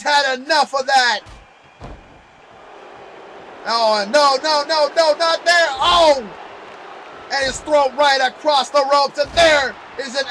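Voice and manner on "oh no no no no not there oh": excited. Real, not acted. Wrestler hit on the ropes.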